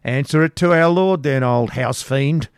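high, loud scornful retort. Acted. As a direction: fling it back at her. Man retorting at hag.

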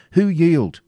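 high, loud question; urgent demand. A narrator's reading. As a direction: demand news from the fight. Ivanhoe demands news of battle.

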